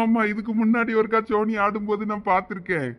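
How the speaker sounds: usual speaking voice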